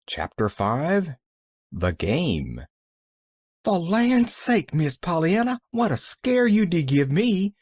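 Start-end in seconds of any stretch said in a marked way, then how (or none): 3.6-7.5 panting. A narrator's reading. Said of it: "panted Nancy".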